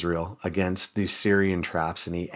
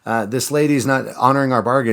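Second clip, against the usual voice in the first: much higher and louder plea; calling out for help; 6 semitones higher, 6 dB louder than usual. Retold or imitated. Starving woman calling out to the king, pleading loudly. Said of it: "one lady calls out to the king".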